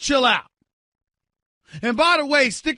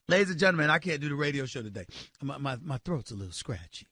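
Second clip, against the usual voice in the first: lower, softer, whiny sick-man voice; mock sick excuse; 7 semitones lower, 7 dB quieter than usual. Host mocks pitcher begging off sick, feeble and whiny. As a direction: play the feeble patient begging off work.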